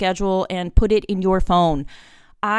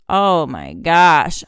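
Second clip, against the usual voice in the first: slow, stretched, louder gasp of dismay; dismayed oh my gosh; 5 dB louder, much slower than usual. Real, not acted. Mother hit by her daughter's words, slow dismay. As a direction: let it sink in slowly.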